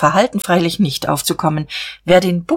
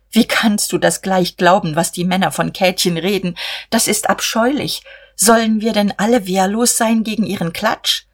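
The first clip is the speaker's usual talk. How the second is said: indignant; 3 semitones higher than usual. Acted. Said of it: "Empört".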